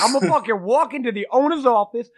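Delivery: mock indignant vow. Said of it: "I was pissed".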